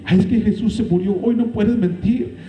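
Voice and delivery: high mocking whine; mock pious excuse. Preacher mocking people's excuses, high whiny voice. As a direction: mimic people's hypocritical excuse. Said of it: "La gente".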